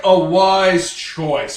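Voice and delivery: loud, drawn-out pronouncement; grandiose, very slow villain voice; bucket-helmet villain. Acted. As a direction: boom it out slowly from inside a helmet. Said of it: "from his bucket helmet".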